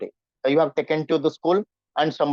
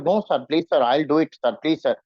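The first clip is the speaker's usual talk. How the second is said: apologetic; 3 semitones lower than usual. Shown as a demonstration. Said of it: "you become apologetic".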